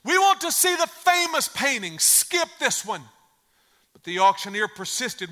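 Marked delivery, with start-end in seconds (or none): 0.0-3.1 high, loud call from the back of the room; shouted heckle. Acted. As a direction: shout impatiently over the crowd, then ease down. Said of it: "a voice in the back of the room shouted".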